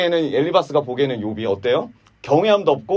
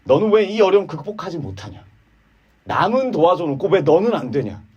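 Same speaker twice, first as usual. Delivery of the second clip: higher, needling questions at Job; reproachful friend; 6 semitones higher than usual. Acted. Eliphaz scolding suffering Job, mock reproach. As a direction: prod him with each question. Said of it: "계속 이렇게 말하는 거예요".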